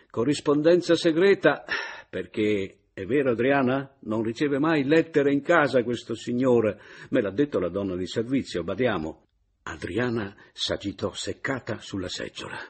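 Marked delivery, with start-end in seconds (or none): 0.1-9.3 loud, higher mocking insinuation; teasing gossip. A narrator's reading. Caporale teasing Meis before Adriana, loud gossiping insinuation. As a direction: needle him with gossip.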